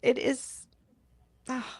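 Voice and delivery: slow and soft, fighting back tears; tearful, choked up. Real, not acted. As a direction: let the tears thin out the voice. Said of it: "Now I'm crying".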